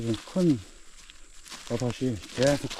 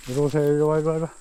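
louder calls to a dog; calling a dog; 2 semitones higher, 3 dB louder, faster than usual. Real, not acted. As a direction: call the dog to come.

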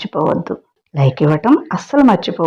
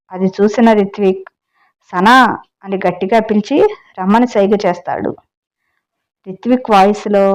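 story narration. A narrator's reading. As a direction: tell the tale to your listeners, lightly dramatic. Reads the story aloud. (కథ చెప్పే స్వరం)

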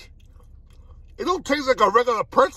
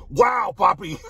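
excited wow; 2 semitones lower, slower than usual. Real, not acted. Hyped reaction.

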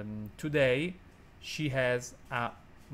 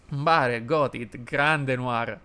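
excited greeting; 8 dB louder, much slower than usual. Real, not acted. Shouting greeting to Noir.

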